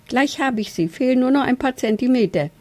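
puffed from straining upward; gasping. A narrator's reading. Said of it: "japste er".

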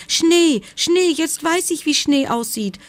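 very high, elated exclamation; joyful cry. A narrator's reading. Hedgehog calling out his discovery of snow, elated and high. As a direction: cry out in delighted recognition, starting loud. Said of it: "rief der Igel".

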